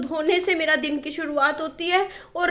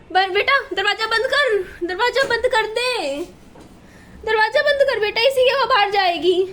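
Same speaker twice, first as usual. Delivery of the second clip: louder, higher call across the room; calling to son; 4 semitones higher, 4 dB louder than usual. Real, not acted. Mother telling her son to shut the door, loud call.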